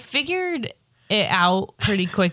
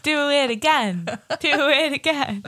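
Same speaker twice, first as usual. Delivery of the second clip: high, laughing cheer for more; laughing demand for more gore; gleeful laughing; 8 semitones higher than usual. Retold or imitated. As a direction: egg the violence on through laughter. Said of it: "and I'm like".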